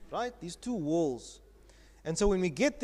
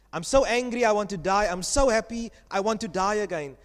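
comic Jonah; 4 dB louder than usual. Acted. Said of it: "this is a comic feel to the story".

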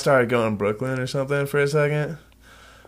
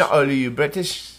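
clumsy attempt at a British accent; bad British accent; 2 semitones lower, 3 dB quieter than usual. Copying co-host's British accent, badly. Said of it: "No, no, it's horrible".

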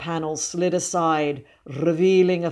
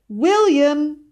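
high, loud call held long; 11 semitones higher, 7 dB louder than usual. A narrator's reading. Sister calls the boy from the garden, calling out. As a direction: sing out the name from afar. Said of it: "The cry came from somewhere".

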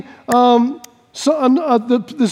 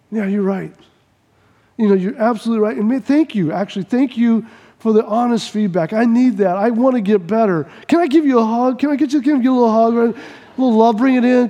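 gladly accepting feedback; grateful agreement; 3 semitones lower than usual. Acted. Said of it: "And the person goes".

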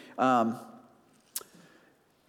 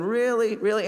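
incredulous; 5 semitones higher than usual. Retold or imitated. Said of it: "You're going".

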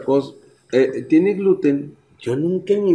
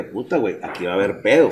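hushed, softer aside to himself; worried mutter; 8 semitones lower, 7 dB quieter than usual. Retold or imitated. Dad noticing people staring, hushed worried aside. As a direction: say it under your breath, worried.

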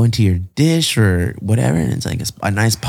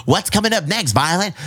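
a lightly voiced, raised-pitch movie dad; Willy Wonka dad; 7 semitones higher than usual. Host acts out a Willy Wonka father asking his daughter. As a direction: ask it like an eager movie father. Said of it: "the little girl from the Willy Wonka".

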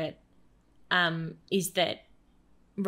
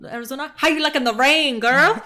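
higher and louder mimicry, teasing; mocking character voice; 6 semitones higher, 7 dB louder than usual. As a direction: parrot the line back in a mocking voice.

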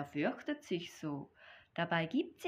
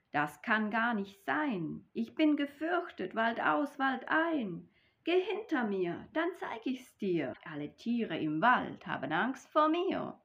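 boastful mouse; 4 semitones higher than usual. Acted. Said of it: "Da sprach die Maus".

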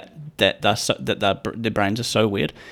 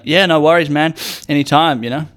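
mock cool kid; 4 semitones higher, 3 dB louder than usual. Kid acting cool to guest.

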